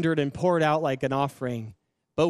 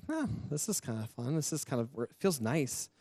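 softly pleased, curious self-talk; quiet musing; 6 dB quieter than usual. Retold or imitated. Camera guy praying at a conference, quietly musing to himself. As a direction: muse softly as if just discovering it.

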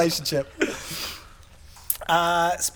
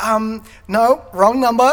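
mild mock frustration, louder; frustrated; 2 semitones higher, 5 dB louder than usual. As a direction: imitate a dad getting fed up with a caller. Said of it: "like, frustrated".

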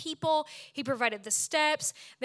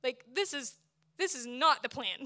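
despairing complaint; 3 semitones higher than usual. Retold or imitated. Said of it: "And I'm like".

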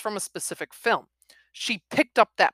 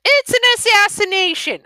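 loud, high Midwestern exclamation; Midwestern accent; 13 dB louder than usual. Retold or imitated. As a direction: blurt it like a Midwestern lady. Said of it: "I have to have the Midwestern accent in there".

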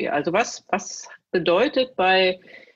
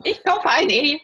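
game show call; 8 semitones higher than usual. Retold or imitated. Glücksrad quote, shouted again.

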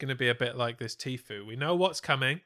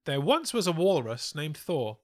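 lightly performed poem reading; limerick recital; 2 semitones higher, 5 dB louder than usual. Acted. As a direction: recite it with mock ceremony. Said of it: "We interrupt this segment for a limerick".

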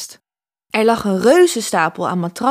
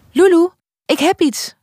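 high, excited cry of discovery; calling out; 8 semitones higher, 4 dB louder than usual. A narrator's reading. Lou finds something under the mattress, calling out excitedly. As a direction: call out eagerly, pitched well up. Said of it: "roept Lou uit".

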